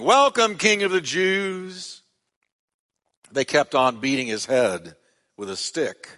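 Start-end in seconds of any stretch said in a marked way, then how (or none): 0.0-2.0 high, slow sneering welcome; mocking shout. Soldiers jeering at Jesus, high mocking welcome. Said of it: "they began shouting".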